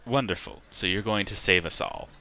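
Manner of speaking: dryly sarcastic praise; mildly mocking approval. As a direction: feign being impressed, with a touch of sarcasm. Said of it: "I sense a little bit of sarcasm in your voice".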